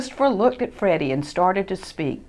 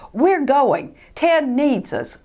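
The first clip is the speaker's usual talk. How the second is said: firm Freddie; 7 semitones higher, 4 dB louder, slower than usual. Acted.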